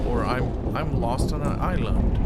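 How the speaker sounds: loud playful calling for help; mock shout. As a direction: shout it like you're stranded. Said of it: "you might have to say".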